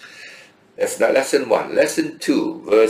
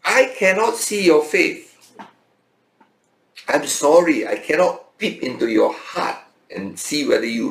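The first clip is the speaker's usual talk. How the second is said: voicing James; 5 semitones higher than usual. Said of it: "here James is saying".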